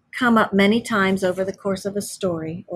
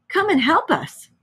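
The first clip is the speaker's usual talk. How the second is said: high-pitched plea; crying for help; 10 semitones higher than usual. A narrator's reading. Friends at the upturned cart begging Toad, high cry for help. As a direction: call out for help in a raised voice. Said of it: "they cried".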